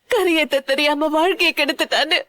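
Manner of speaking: words broken by sobs; crying. Acted. Mother crying over her daughter's ruined life, sobbing. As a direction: weep through the line.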